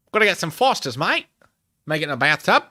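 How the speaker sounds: mock gangster-Aussie accent, punched out loud; Australian-American gangster accent. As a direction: play a 1920s American gangster turned Aussie, accent and all. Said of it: "nineteen twenties American gangster went to Australia".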